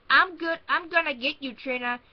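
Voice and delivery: high loud menacing dummy voice; a taunting dummy threatening his sister; dummy growl. Retold or imitated. Brother voicing the dummy to scare his sister, mock growl. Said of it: "he would make Rocky growl".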